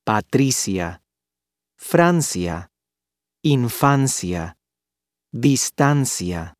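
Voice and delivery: pa-TRI-cya, FRAN-cya, in-FAN-cya, dis-TAN-cya; ia as diphthong. Shown as a demonstration. Teacher contrasts following words, i and a merged in one syllable. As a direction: glide "ia" into one unstressed "ya" in "Patricia", "Francia", "infancia", "distancia". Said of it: "the vowels i and a do form".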